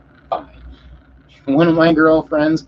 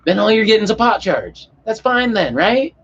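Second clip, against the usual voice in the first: stoner cop; 8 semitones higher than usual. Retold or imitated. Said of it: "it was the most stoner cop I've ever seen".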